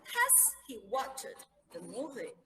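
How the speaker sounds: "Has he watched the movie?" spoken slowly and clearly; slow model question. Shown as a demonstration. Teacher models the question slowly for the class. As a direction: spell out the question for learners. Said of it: "Has, perfect".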